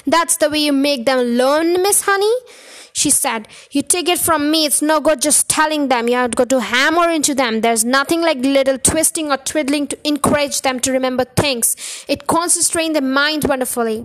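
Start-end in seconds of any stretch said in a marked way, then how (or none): 0.1-2.4 loud domineering Trunchbull voice; overbearing headmistress lecturing; bossy headmistress. Acted. 3.7-14.0 loud domineering Trunchbull voice; overbearing headmistress lecturing; bossy headmistress. Acted.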